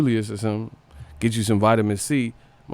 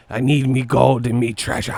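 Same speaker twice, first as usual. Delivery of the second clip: 1 mock pirate. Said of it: "sound like a pirate".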